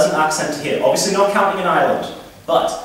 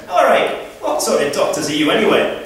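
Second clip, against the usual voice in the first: lightly acted Scottish heckler, pitched up; Scottish accent; 5 semitones higher than usual. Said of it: "a Scottish guy".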